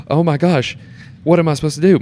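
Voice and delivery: high, loud mock panic; shocked reaction. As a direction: replay the moment of stunned horror onstage. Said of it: "I'm making a face like".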